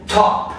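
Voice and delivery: "top" with a tapped-out, crisp British T. Shown as a demonstration. Teacher showing learners the British T, crisp T in "top". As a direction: say "top" with the T clearly released. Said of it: "sempre vai ser falada com um tapinha".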